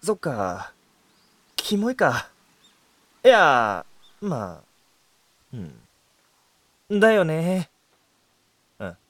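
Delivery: low, soft hurt mumble; dejected. Real, not acted. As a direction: mumble it, crushed. Hurt after being called creepy.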